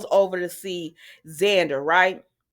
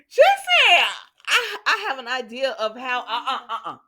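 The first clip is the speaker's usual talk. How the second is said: high start, breaking up with laughs; talking through laughter; 4 semitones higher, 6 dB louder than usual. Real, not acted. Host retells the mother's excuse, talking through laughter. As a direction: struggle to retell it while laughing.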